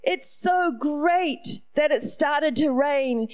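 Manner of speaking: lightly voiced small boy, relieved and slow; son to his sister. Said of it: "and he goes".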